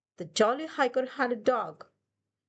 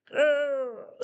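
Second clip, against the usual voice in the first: Wolf growling; 4 semitones higher than usual. Acted. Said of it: "said Wolf".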